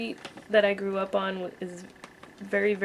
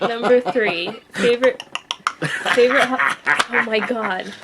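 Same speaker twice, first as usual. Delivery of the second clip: loud giggly reading through laughter; trying to read while cracking up; laughing; 2 semitones higher, 8 dB louder than usual. Real, not acted. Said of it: "calm down".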